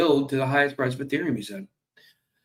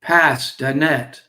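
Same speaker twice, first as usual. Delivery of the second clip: slow, loud "pas dot net" like a fisherman calling for help; fisherman calling his buddy; 5 dB louder, much slower than usual. Acted. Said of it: "He turns around to his buddy and he says".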